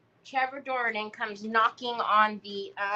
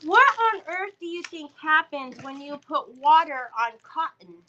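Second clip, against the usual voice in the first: scolding mom; 4 semitones higher, 5 dB louder than usual. Retold or imitated. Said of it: "I said".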